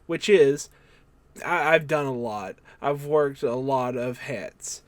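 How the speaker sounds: uncertain put-on accent for a quote; Nick Aldis accent attempt. Host reads wrestler's interview quote aloud, in a makeshift accent. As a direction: read it out in an unsure, improvised accent. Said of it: "I don't know what this accent is".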